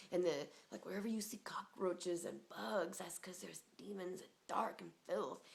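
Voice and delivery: slow whispered ominous advice; hushed warning. Retold or imitated. Whispering a friend's warning about demons and filth.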